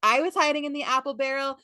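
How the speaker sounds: high-pitched mock tirade, punching the boasts; hammed-up indignant rant; going off, mad. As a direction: imitate an annoyed boy telling them off. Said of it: "goes off. He's, like, so annoyed. He's so mad".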